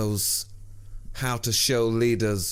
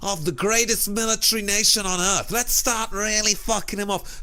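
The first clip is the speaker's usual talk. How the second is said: higher, dopey voice of brainless protesters; mocking protesters; 10 semitones higher than usual. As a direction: ham up a gormless activist.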